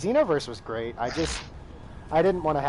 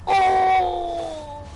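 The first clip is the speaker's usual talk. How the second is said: high yelp fading into breathless mutter; panic, then fade to a whisper; panicking; 8 semitones higher than usual. Real, not acted. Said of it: "I'm panicking".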